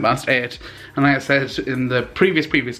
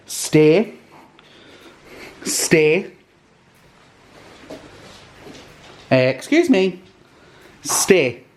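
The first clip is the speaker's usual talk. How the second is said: upbeat commands and praise for the dog, pitched up; dog training voice; 2 semitones higher, slower than usual. Real, not acted. Owner training her dog Ruben, bright commanding praise. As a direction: coax the dog through his tricks.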